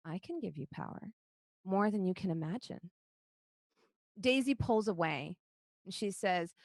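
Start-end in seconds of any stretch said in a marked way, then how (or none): 0.0-2.9 gentle. Acted. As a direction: gently tempt a child. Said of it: "the voice says gently".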